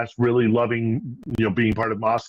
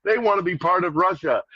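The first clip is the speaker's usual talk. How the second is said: higher, lightly voiced tankie parroting the line; mock tankie voice; 5 semitones higher than usual. Host mocking tankies who quote her, lightly voiced. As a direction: mimic a smug pro-Russian poster, pitched up. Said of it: "be like".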